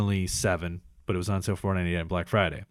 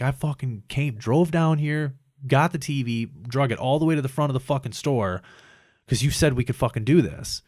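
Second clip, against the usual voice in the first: mildly raised, pissed-off complaint; retold angry yelling; 3 semitones higher than usual. Retelling Haley's phone complaint, mock angry yell. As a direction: imitate an angry customer without fully yelling. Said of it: "She started yelling on the phone".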